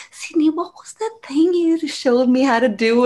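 high, mock-helpless ask; sheepish pleading. Texting the web designer for help, sheepish pleading. Voices own pleading message to helper.

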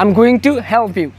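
very slow "I'm going to help you", each word separate; careful full-form demo. Shown as a demonstration. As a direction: draw out "going to" fully. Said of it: "আমরা বলি এরকম just".

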